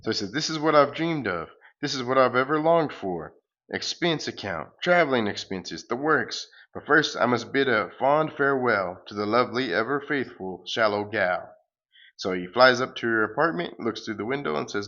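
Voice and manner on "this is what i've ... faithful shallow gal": a lightly voiced hero, raised and louder; sing-song grand farewell, hammed up; pompous hero. The hero flying off to the moon, light hammed-up hero voice.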